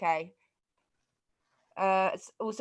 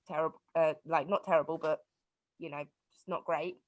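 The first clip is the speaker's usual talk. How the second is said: muffled behind mask. Real, not acted. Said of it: "with the mask on".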